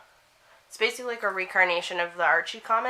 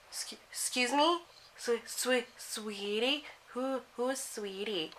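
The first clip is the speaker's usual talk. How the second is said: breathless hushed disbelief, stammering; stunned whisper; 4 semitones higher, 8 dB quieter, slower than usual. Retold or imitated. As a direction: starstruck after he calls her sweetie, barely a whisper. Stunned by the actor calling her sweetie.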